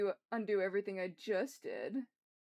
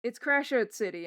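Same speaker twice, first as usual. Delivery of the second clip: exasperated outburst; 3 semitones higher, 8 dB louder than usual. Real, not acted. Exasperated rant.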